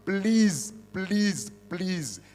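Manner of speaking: repeated begging please, fading out; pleading please. Real, not acted. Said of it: "I am pleading with you".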